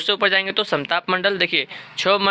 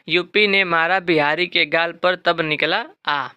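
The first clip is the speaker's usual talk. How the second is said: slow, deliberate memory rhyme; slow mnemonic recital; slower than usual. Shown as a demonstration. Teacher slowly giving students the population mnemonic. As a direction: dictate the trick word by word. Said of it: "इसका trick भी है".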